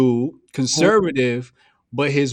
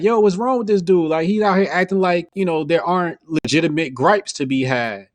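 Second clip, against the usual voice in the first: higher-pitched imitation of someone venting; retold venting; 4 semitones higher than usual. Girlfriend venting about a dude, retold in a raised pitch. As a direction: vent as if in her place, pitched up. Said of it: "vented to me like".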